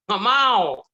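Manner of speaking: high, loud comic refusal; hammed-up loud protest; mock emphatic refusal. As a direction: blurt out an exaggerated no. Acted blunt refusal to become monk.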